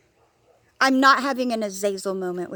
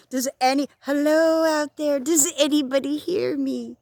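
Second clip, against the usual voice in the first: calling into the void; 5 semitones higher than usual. Pretend. Asking viewers if anyone is listening, calling out. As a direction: call out as if into an empty room.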